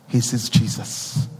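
slow whispered, almost breathless; whispered reverence; hushed whisper. Real, not acted. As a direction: let it fall to a whisper in awe. Tender hush in worship reflection.

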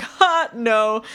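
a high, loud scoffing "no way"; a girl scoffing when her sister calls an actor hot; scoffing disbelief. Retold or imitated. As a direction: brush the idea off like a kid. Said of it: "I was like".

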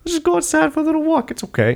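high-pitched soothing coax; acted calm menace, dropping to a reassurance; super calm. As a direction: sweetly lead the victim away. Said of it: "when the bad guys are super calm".

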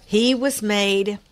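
smacking while chewing; slow through a mouthful; eating chocolate. Real, not acted. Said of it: "I'm smacking".

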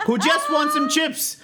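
high-pitched, exaggerated begging; hammed-up plea. Customer begging the manager as a fake dad, hammed-up plea. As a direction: beg like a desperate parent, overplayed.

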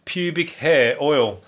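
slow, each word dragged in disbelief; slow disbelieving repeat. Shown as a demonstration. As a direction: savour "Pubic hair oil" slowly, incredulous.

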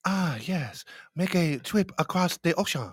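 put-on Asian accent voice; mock Asian accent. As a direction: speak in a hammed-up Asian accent. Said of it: "That's his Asian voice".

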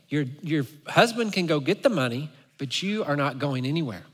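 lightly voiced officer, softly firm; softly refuse, imitating a condescending officer; quiet, understated authority in a retold voice; mock-sweet officer. Officer mimics wife, firmly refuses.

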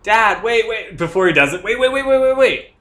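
high, loud, rapid-fire pleading; urgent pleading. Pretend. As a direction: act a kid frantically stopping a parent. Plays kid urgently stopping dad.

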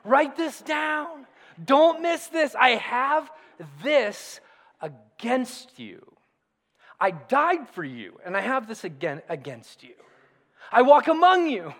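earnest, urgent words of Jesus, not a full character voice; lightly voiced Jesus. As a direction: plead with them as Jesus, a touch of intensity. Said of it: "it's like Jesus saying".

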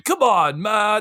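put-on light Brooklyn Italian accent; a touch of young Brooklyn Italian; Italian-American accent. Podcaster recalling a Saturday Night Fever line, Brooklyn Italian accent. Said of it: "There is no Italian".

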